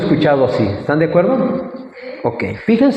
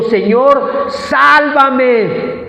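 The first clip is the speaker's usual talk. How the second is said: raised, high plea for rescue; crying out; 6 semitones higher, much slower than usual. A narrator's reading. Sinking Peter calling to the Lord, crying out. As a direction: call out as if sinking, without full shouting. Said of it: "dio voces diciendo".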